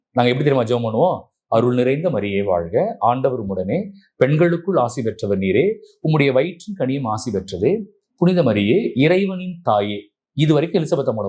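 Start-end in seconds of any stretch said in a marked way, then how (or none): 1.5-10.0 prayer recitation. Shown as a demonstration. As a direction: recite the Hail Mary devoutly. Recites rosary prayer as demo.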